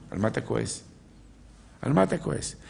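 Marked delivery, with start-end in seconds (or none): 1.8-2.6 same question lifted higher; raised rhetorical repeat. Shown as a demonstration. Preacher pressing the congregation, raised and insistent. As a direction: press the listener, pitch up.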